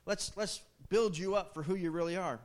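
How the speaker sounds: mock hype for Peter, the rock; mock pep talk. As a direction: pump him up like a cheesy coach. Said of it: "Jesus didn't correct him and say".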